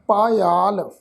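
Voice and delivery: "ਪਾਇਆਲ" with two long vowels, paa-yaal; demonstrated pronunciation. Shown as a demonstration. Teacher showing how to pronounce the word, drawn-out syllables. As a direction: stretch both aa sounds in "ਪਾਇਆਲ". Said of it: "ਇਸ ਸ਼ਬਦ ਦਾ ਉਚਾਰਨ ਕਰਾਂਗੇ".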